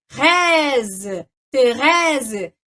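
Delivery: Thérèse with an open è, slowly; French pronunciation. Shown as a demonstration. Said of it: "o grave abre". (Thérèse com o è aberto)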